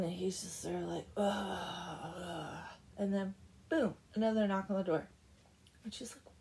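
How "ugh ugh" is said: brooding groan. Retold or imitated. Blacksmith brooding alone in the house, groaning. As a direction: groan like someone stewing in gloom. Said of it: "he's brooding".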